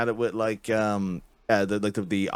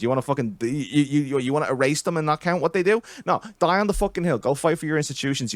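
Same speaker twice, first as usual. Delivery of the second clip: hammed-up furious rant that starts talky and ends yelling; mock rant; 5 semitones higher, faster than usual. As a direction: tear into the liberal, faster and rising. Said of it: "keep it respectful like I just did there".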